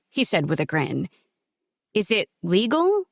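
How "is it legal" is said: wary. Acted. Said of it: "she asked warily".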